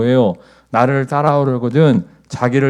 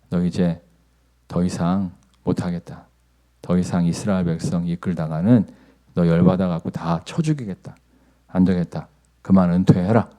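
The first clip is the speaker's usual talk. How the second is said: a hint of a stern divine voice, lower-pitched; God; 4 semitones lower than usual. God retiring Moses for his lost temper, low stern rebuke. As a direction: lightly voice a low, measured rebuke. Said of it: "하나님 뭐라고 말씀하세요".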